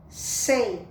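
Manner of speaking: SEI with a strong hissed S; strong S sound. Shown as a demonstration. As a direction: isolate SEI, hard S first. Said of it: "Já tem um som forte".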